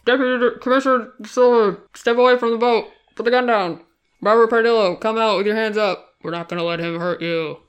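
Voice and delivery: through a megaphone. Retold or imitated. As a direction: bark orders through a bullhorn. Police calling out at raid.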